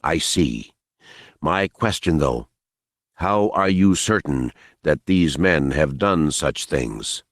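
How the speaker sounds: calm her gently without pity. Acted. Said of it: "he lowered his voice, speaking gently and respectfully".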